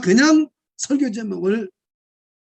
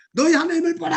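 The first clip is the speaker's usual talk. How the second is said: high, raised call; shouted proclamation; 6 semitones higher, faster than usual. Shown as a demonstration. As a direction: cry it out with all your voice. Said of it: "목소리를 다해서 한번 외쳐보세요".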